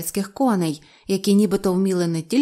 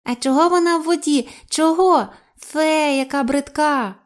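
high-pitched parroting creature; саламандра повторює почуте; 8 semitones higher, 4 dB louder than usual. A narrator's reading. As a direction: mimic overheard remarks, pitched way up. Саламандра повторює слова відвідувачів. (високий голос саламандри)

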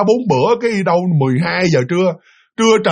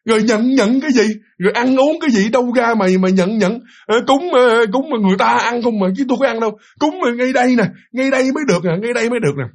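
higher-pitched retold grumbling at an elder; mildly acted protest, pitched up; unchildlike, talking as equals; 4 semitones higher than usual. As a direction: voice the possessed boy talking back as an equal. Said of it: "cái giọng điệu nó nói không có giống như mà mấy đứa bảy tám tuổi".

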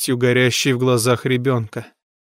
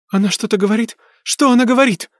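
desperate cry; 9 semitones higher, faster than usual. A narrator's reading. Mother crying out to the medium. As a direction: beg for an answer. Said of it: "вскричала Люси".

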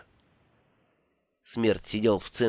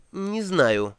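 задумчиво; 6 semitones higher than usual. Acted. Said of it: "задумчиво проговорил он".

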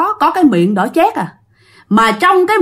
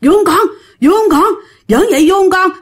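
high, gleeful spooky taunt; taunting ghost mother; 7 semitones higher than usual. Retold or imitated. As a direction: coo at her ghost child, mocking. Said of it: "bà hỏi".

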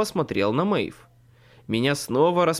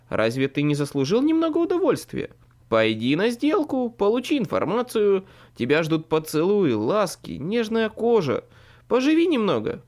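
coaxing faerie voice, louder; seductive faerie queen; 6 semitones higher, 3 dB louder than usual. A narrator's reading. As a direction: tempt him, rising and pressing. Maeve tempting the wizard.

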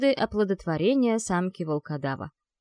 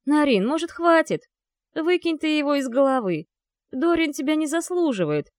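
higher, louder pleading exclamation; 6 semitones higher, 3 dB louder than usual. A narrator's reading. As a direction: call out to her to stop. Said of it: "громко воскликнул". (громкий возглас друга)

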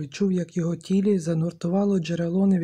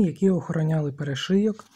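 ordinary delivery

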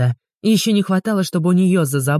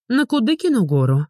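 snapping retort; 7 semitones higher than usual. A narrator's reading. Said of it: "огрызнулась она".

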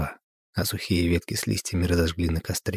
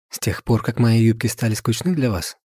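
sarcastic jab; 4 semitones higher than usual. Acted. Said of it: "добавила Анастасия".

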